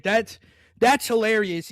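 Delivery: slow words through laughter; laughing. Real, not acted. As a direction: say it while cracking up. Laughing at his own hiccups.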